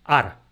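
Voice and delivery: "ar" punched as the stressed first syllable of árbol. Shown as a demonstration. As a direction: say "ar" with a strong push of voice. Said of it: "la pronuncio con una fuerza especial en la sílaba ar".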